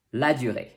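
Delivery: La durée as "la dü-RAY", throaty R; French pronunciation. Shown as a demonstration. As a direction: model La durée with rounded U. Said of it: "and the sound U".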